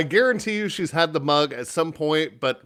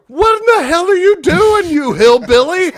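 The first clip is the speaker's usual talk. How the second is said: high, loud mock yell at the aunt; incredulous high-pitched outburst; retold yell; 11 dB louder than usual. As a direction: scold her like a shocked relative. Yelling at aunt in retold scene.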